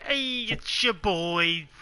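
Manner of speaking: slow, drawn-out Jewish woman voice; a stretched-out Jewish woman impression. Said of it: "I'll do it in the Jewish woman voice".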